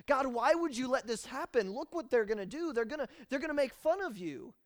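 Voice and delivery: high, loud accusing complaint; blaming whine. Acted. Joshua blaming God, whining and accusing. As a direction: push the blame onto God. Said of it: "shifting the blame to God".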